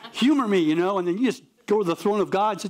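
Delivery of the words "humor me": pleading humor me. Shown as a demonstration. Pastor showing how to offer the Gospel prayerfully, coaxing. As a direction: coax the friend with a prayerful nudge. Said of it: "with prayer, of course".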